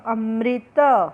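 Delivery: अमृत drawn out, मृ said clearly; slow teacher reading. Shown as a demonstration. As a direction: stretch out अमृत slowly. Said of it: "म को री की मात्रा".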